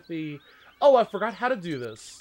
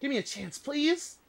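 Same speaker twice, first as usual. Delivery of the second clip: F1 driver voice; 2 semitones higher than usual. Retold or imitated. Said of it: "That is what he said".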